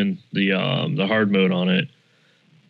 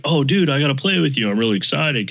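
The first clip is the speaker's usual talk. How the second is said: excited; 5 semitones higher than usual. Retold or imitated. Self quoted, eager to play.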